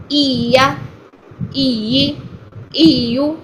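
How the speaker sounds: ای یا with the voice lifted onto the yaa; stressed doubled yaa. Shown as a demonstration. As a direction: stress the voice, not the tongue, in ای یا. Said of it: "آواز میں stress لے کر آئیں گے".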